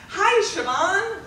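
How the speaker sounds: high, drawn-out calling out; imitated yelled greeting. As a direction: mimic someone calling a slow hello. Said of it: "he yells".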